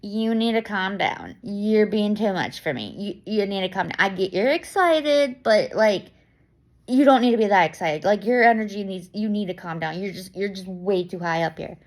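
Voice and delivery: mock lecturing. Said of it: "I don't sit there and say".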